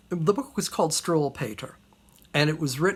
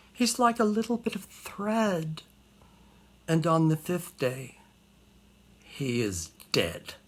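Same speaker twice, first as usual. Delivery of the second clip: mock-tragic storytelling; hushed poem recital. Recites a children's verse.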